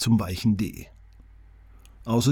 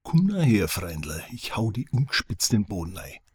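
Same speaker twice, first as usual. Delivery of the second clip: Franconian threat. Retold or imitated. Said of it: "kann man sich schon mal anhören".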